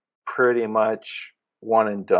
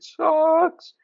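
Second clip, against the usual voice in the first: drawn-out disgust. Real, not acted. Complaining about Crave.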